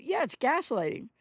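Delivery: ordinary talk, nothing marked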